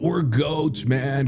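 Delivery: a hint of a goofy troll bellow. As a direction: stretch it out in a light dopey troll voice. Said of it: "I gotta stop with the troll voice".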